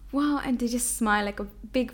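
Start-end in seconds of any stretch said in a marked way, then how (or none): 0.0-0.4 high gasp then wow; delighted gasp. Retold or imitated. Friends turning round to see her hijab, gasping in delight. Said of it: "and it's like".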